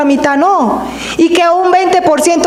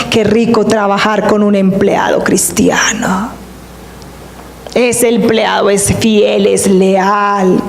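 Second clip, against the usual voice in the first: susurrando; 5 semitones lower than usual. Acted. El rey piensa en Daniel.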